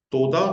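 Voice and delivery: तोदा read out clearly, the final हे silent; example word. Shown as a demonstration. Teacher to students, reading the example word. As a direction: say तोदा with a rising tune and no final हे. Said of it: "तोदा में हे silent है".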